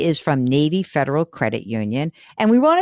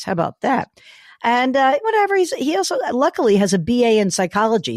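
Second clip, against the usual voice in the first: hoarse, sick, scratchy voice. Real, not acted. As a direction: talk through a sore throat with a rasp. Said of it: "here is my scratchy voice".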